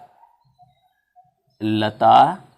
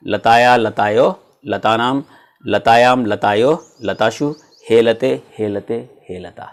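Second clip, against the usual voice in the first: slow paradigm recitation; 3 semitones lower than usual. Shown as a demonstration. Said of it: "इसका उच्चारण करके देखें".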